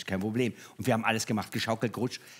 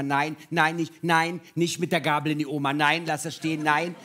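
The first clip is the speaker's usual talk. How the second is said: lightly voiced scolding parent, a bit louder; nagging parent; 2 semitones higher, 4 dB louder than usual. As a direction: imitate parents forever saying no, insistently. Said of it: "Eltern werden ja Eltern, die sagen immer". (leicht nachgeahmte ermahnende Eltern)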